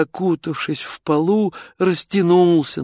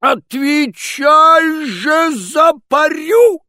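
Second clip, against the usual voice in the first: furious tsar shout; 13 semitones higher, 8 dB louder, slower than usual. Acted. Tsar roars at Ivan.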